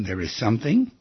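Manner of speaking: phrase-by-phrase, as for note-takers; deliberate, spaced-out delivery; dictation. Shown as a demonstration. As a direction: dictate in separate phrases with long pauses. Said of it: "Write that down".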